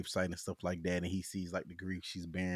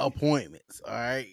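louder, higher parental insistence; insistent dad; 4 semitones higher, 7 dB louder than usual. Retold or imitated. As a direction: act out a dad firmly repeating himself. Dad repeats his answer, more firmly.

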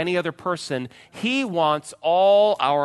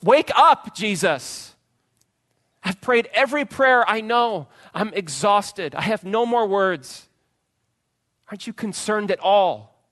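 high loud pleading cry; desperate complaint to God; 7 semitones higher, 5 dB louder than usual. Pretend. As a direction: beg God in anguish, voice raised. Exhausted plea acted out.

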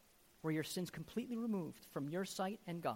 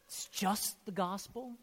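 incredulous question; 3 semitones higher than usual. Retold or imitated. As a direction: throw the words back, astonished. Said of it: "I felt the Holy Spirit".

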